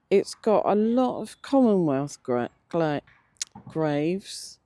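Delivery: teeth not in properly; stumbling over loose dentures; toothless. Real, not acted. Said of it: "I haven't got my teeth in properly".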